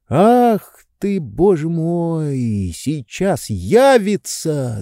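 high, slow, fretful exclamation; panicked aside. A narrator's reading. Oblomov fretting she'll arrive any moment. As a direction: mutter in dismay, sweating. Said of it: "думал Обломов, оттирая пот".

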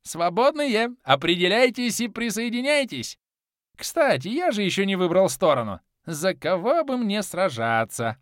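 high, loud gleeful madman; mad god. A narrator's reading. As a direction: gloat over the coming slaughter. Mad god summons his side.

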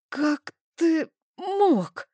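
choked, high and slow; сдавленно, с болью; strangled. A narrator's reading. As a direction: force it out through a tight throat. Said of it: "сдавленно произнесла я".

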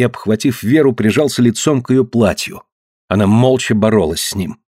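usual speaking voice

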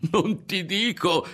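gleeful outburst on the edge of laughter; tickled, voice leaping up; bursting with amusement. A narrator's reading. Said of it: "scoppiò a ridere Berto".

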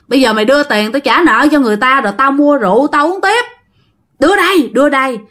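put-on rising drunken demand, pitch climbing at the end; a drunk husband shaking down his wife for money. Drunk husband demands money from his wife, getting angrier. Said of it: "ổng nói rằng á là".

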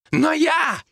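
monk yelling over the others; shouting. A narrator's reading. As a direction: cry out to cut in. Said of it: "закричал Тасник".

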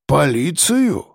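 slow respectful drawl on Полицию; drawn out respectfully. A narrator's reading. Driver impressed his passengers are police, slow drawl. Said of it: "протянул тот уважительно".

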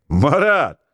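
high, loud call across the room; shouting a name. Acted. Mechanic's mate shouting to Marat through the door. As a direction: call him over, shouting. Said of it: "закричал вдруг Козырев".

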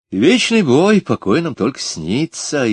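declaimed loudly, the second half slowed; mock-solemn quoting of a famous line; pompous pronouncement. A narrator's reading. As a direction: proclaim it like a grand motto. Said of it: "изрёк Кричко".

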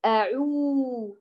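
the sound أعو drawn out very slowly, lips fully rounded; Arabic waw demo; clean Arabic waw. Shown as a demonstration. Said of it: "نريد واوا عربية".

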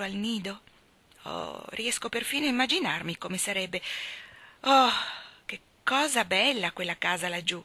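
put-on a girl's bright chatter, lifting on her delights; lightly voiced chatty girl. Young Anna dreaming aloud to Marilla, lightly voiced eager chatter. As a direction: let Anna gush about the sea.

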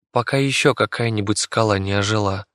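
ordinary delivery, nothing marked

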